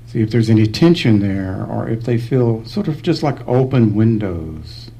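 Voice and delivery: unhurried meditation guidance with long pauses; calm, spacious meditation voice; guided meditation. Real, not acted. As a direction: guide them gently through the body, leaving space between phrases.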